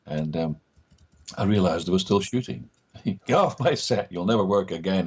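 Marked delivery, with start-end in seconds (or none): 3.1-5.1 hammed-up telling-off; mock angry director. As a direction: imitate an irate director, lightly. Director throws him off set.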